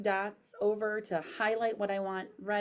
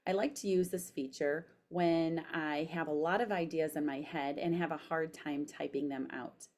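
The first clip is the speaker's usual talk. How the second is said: careful dictation, spoken punctuation; dictating; 2 semitones lower than usual. Shown as a demonstration. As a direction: read it clearly to voice typing. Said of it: "So I'm pushing the microphone".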